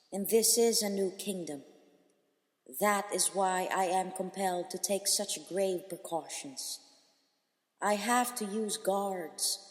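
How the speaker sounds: a queen reassuring shipwrecked strangers, voice lifted; queen Dido. Acted. Dido then gave her answer.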